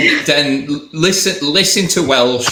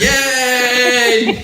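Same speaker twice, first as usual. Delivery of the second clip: high, drawn-out happy "yay"; cheering; 10 semitones higher than usual. Real, not acted. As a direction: cheer the win with a laugh. Cheering a matching game answer.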